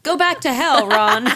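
loud, high-pitched banishing shout; mock yell. Moviegoer banishing Ron from the screen, yelling.

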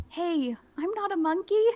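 high, offended objection; indignant protest. Pretend. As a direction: act mock-offended. Reader protests being called monkey.

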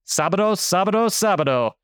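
mock Spanish TV announcer chant; imitating Sábado Gigante host. Host riffing on the show's name to his guest, mock announcer chant. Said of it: "For those who are fans of Sábado Gigante".

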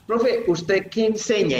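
inquiring student. Retold or imitated. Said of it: "me han preguntado mucho".

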